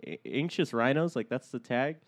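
talking through a blocked nose; stuffed-up nasal voice; stuffy nose. Real, not acted. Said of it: "My nose is stuffed up".

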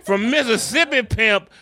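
high, giggling delivery; cracking up mid-description; laughing. Real, not acted. Laughing at Graceland decor.

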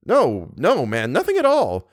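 a touch of aggressive denial; half angry. A narrator's reading. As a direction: snap it back half angrily. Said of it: "he replied aggressively, half angrily".

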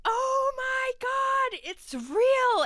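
hammed-up disbelief, half-laughing; mock scream at the TV. Yelling at the TV about reptile caves, mock shriek. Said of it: "I'm screaming at the T V".

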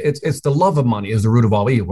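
"love" leaned on, the key word of the phrase; weight the word "love" in "the love of money"; stress on love. Shown as a demonstration. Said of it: "emphasis on the word of l-, love".

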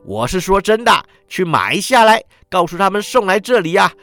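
put-on high, excited old miser babbling with joy; giddy old Scrooge. A narrator's reading. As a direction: bubble over like a reborn old man. Scrooge urging boy to buy turkey.

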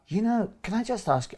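high, tentative polite request; gentle permission. Shown as a demonstration. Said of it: "what we call gentle permission".

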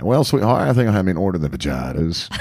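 hint of an in-law mangling fajitas as vuh-JAI-tuhz; imitated mother-in-law. Replaying the isolated clip of the singer's story, lightly mimicked mother-in-law. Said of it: "just him saying that".

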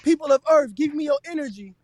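loud, high grand villain voice; booming arrogant alien overlord. Acted. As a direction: proclaim it like a cosmic tyrant. Mock battle act line.

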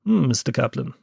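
lightly done James Mason; a hint of a posh English actor; James Mason impression. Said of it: "He talks like this".

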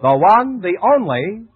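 bright sponsor intro building to a big finish; announcer opening. Acted. Announcer presents the sponsor and the star, building up. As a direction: sell it like a radio announcer.

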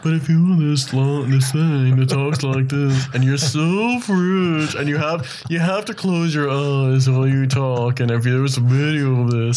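put-on stagey old movie actor mid-Atlantic accent. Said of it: "it's that mid-Atlantic accent".

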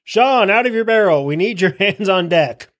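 hearty ship's captain hollering for a hand; calling out orders. Acted. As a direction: summon the crew on deck. Captain calling a crewman on deck.

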